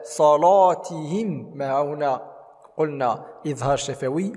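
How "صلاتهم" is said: صلاتهم slow, with a full dark l; heavy laam. Shown as a demonstration. Teacher models the correction, heavy laam in صلاتهم. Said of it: "تفخيم حرف اللام هنا".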